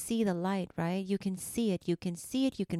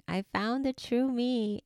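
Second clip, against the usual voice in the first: higher, thrilled echo of the same words; excited repeat; 6 semitones higher than usual. Real, not acted. Host telling mamas she found herself, now higher and thrilled. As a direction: lift it with joy the second time.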